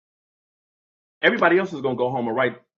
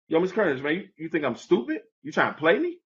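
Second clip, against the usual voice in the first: mild mock outburst; 4 semitones higher than usual. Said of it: "blew down on the teacher".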